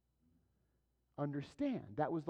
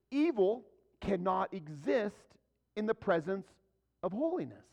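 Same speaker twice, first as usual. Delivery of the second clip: emphatic preaching; 4 semitones higher, 5 dB louder than usual. Real, not acted.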